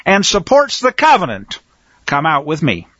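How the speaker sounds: high, loud rallying battle cry. Acted. Preacher rereading Matthias's call to arms, loud. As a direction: call them out to fight. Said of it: "Let me read it again in a loud voice".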